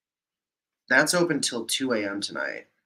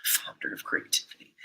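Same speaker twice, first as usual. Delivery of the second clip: whispering; 7 dB quieter than usual. Real, not acted. Reading screen text under breath.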